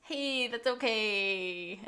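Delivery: slow, drawn-out soft reassurance; playful consoling. Pretend. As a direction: stretch it out like comforting a child. Consoling host who feels dumb.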